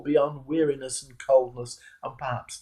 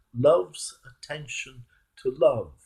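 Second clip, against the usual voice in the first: slow savoured repeat. Shown as a demonstration. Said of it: "Isn't that a wonderful phrase?".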